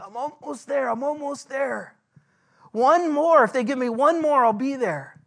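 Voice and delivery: imagined Paul enduring. Retold or imitated. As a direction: voice Paul pushing through the blows, building.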